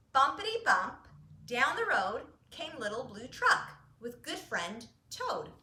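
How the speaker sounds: lively storybook read-aloud; reading to children. A narrator's reading. Parent reading a bedtime book, lively. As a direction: read it bright for little listeners.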